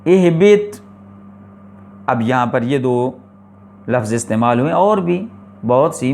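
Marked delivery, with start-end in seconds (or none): 0.0-0.8 teacher's model reading of اہبط with i on the first letter; Quranic recitation demo. Shown as a demonstration. Teacher gives an example of a word opening with i: recited اہبط. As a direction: recite اہبط as اِہبِط, starting with a clear i vowel. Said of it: "جیسے".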